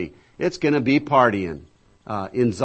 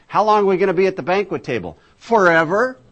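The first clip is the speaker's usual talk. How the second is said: higher, faster and louder, building to a cry; rousing preacher; 8 semitones higher, 5 dB louder than usual. Real, not acted. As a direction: whip the room up to the answer.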